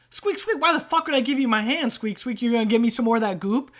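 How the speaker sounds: quick, indignant rat refusal; indignant rat trader. Acted. Rat refusing to show his hand, quick and indignant. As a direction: snap back as a distrustful rat. Game master voices rat character.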